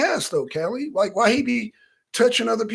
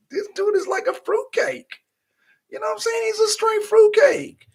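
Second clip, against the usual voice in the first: mock exaggerated voice; 14 semitones higher than usual. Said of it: "I'm like".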